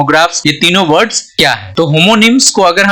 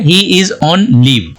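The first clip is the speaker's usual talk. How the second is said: very slow, careful dictation; teacher dictating an English example sentence; much slower than usual. Shown as a demonstration. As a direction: read it word by word for learners. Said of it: "एक है".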